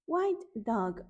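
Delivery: first "White dog" sung brightly at normal pitch; bright call. Shown as a demonstration. Teacher naming the animal for toddlers, sung out. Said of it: "first of echoed call".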